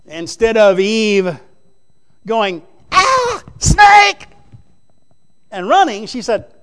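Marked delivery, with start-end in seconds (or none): 2.9-4.3 high mock shriek on "snake"; startled scream. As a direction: shriek like Eve seeing the snake. Eve fleeing the serpent.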